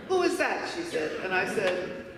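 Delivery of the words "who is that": mocking question. Girl mocking the mother.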